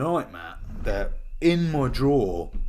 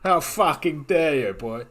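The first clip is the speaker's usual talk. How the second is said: ranting Mercedes owner, louder at the start; hammed-up outrage at the podcast host; mock furious review; 3 dB louder than usual. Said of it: "The sheer anger".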